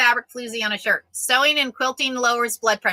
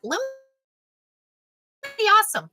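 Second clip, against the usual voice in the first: much higher, slow and stretched; sing-song praise; 10 semitones higher, slower than usual. Real, not acted. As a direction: croon the praise playfully. Praising Lumi.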